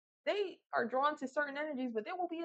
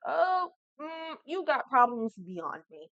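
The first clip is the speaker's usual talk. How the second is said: dismissive; 2 semitones higher, 5 dB louder, much slower than usual. Acted. Acted dismissive reply to brother.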